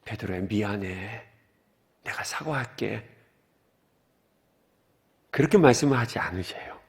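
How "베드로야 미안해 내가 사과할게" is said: softer, lower gentle apology; a hint of a meek Jesus saying sorry; mock apology. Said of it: "어떻게 하십니까". (부드럽고 낮은 사과하는 목소리)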